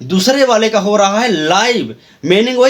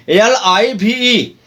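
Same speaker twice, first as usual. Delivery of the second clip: slow letter-by-letter spelling; much slower than usual. Shown as a demonstration. Teacher spelling the word for students. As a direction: spell each letter slowly. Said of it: "यहाँ पर एल आई वी ई".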